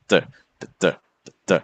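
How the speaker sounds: "duh DUH", the second "duh" stressed; short "duh" pairs, light then heavy; iambic beat. Shown as a demonstration. Teacher showing what iambic means, weak-strong beat. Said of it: "Iambic means that you got this".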